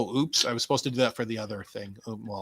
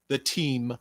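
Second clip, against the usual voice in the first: ordinary talk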